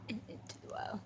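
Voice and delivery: barely voiced "And into the wild"; soft dramatic whisper. Filming the dog, whispered dramatic title. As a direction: let it fade to a whisper.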